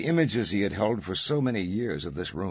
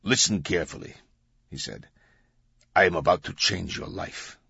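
put-on Arabic accent. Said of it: "had a thick Arabic accent".

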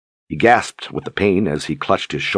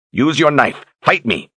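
furious shout; 9 semitones higher than usual. A narrator's reading. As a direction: scream the orders at him. Berdine screams command.

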